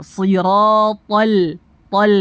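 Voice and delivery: SIRATAL drawn out, ending in a light L; slow SIRATAL, thick TO then thin L; thin lam. Shown as a demonstration. Teacher correcting the lam, thin L in siratal. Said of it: "tipis huruf lamnya".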